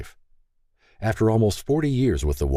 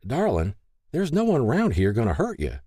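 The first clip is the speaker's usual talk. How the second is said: higher-pitched coaxing reassurance; cajoling; 7 semitones higher than usual. A narrator's reading. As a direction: coax a frightened guest, voice lifted. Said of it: "Mary cajoled".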